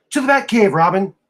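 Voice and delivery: rattled off in a hurry. Retelling how he'd say a line: very quick delivery. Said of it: "really quickly".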